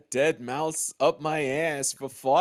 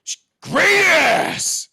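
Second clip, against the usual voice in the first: mock squeak; 9 dB louder, much slower than usual. Odd voice outburst.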